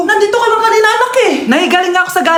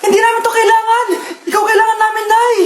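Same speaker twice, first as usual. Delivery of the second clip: tearful higher plea; hammed-up crying over mom; mock sobbing; 5 semitones higher than usual. Children weep for dying mother.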